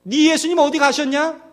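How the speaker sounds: mock scolding. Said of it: "저를 마음에 혼내셨다고요".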